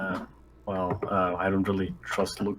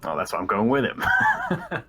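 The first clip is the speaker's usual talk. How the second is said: laughing, voice jumps high; 4 semitones higher, 4 dB louder than usual. Real, not acted. Player laughs while explaining why she goes along. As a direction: laugh through the words.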